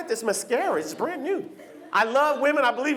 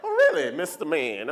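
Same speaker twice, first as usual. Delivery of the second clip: sass him with a raised brow; sassy; 5 semitones lower than usual. Retold or imitated. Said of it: "it's like".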